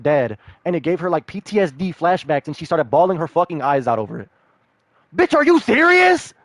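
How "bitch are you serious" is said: high, loud, slow disbelief; incredulous. Real, not acted. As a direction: stretch it out in utter disbelief. Disbelief at her crying.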